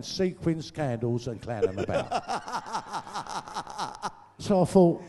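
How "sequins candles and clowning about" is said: laughing. Real, not acted. Laughing while listing.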